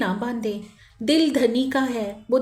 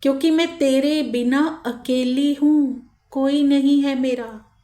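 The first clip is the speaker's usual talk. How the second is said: pleading call; 2 semitones higher than usual. Acted. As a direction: call out to your beloved, gently acted. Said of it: "धनी जी को पुकार ले". (हल्की ऊँची आवाज़ में विनती भरी पुकार)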